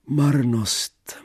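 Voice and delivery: high, loud despairing cry of boredom; loud sighing cry. Acted. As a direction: throw the word out in a big bored wail. Heroine sighs out vanity. (hlasitý zoufalý výkřik)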